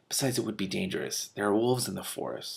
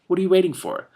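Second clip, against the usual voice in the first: impatient; 11 semitones higher, 6 dB louder than usual. Acted. Impatient girl urging him.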